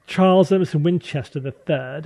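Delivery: put-on upper-crust Boston accent; rich Boston accent. Naming the rich Boston doctor from MASH, upper-class Boston accent. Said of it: "the rich Boston accent".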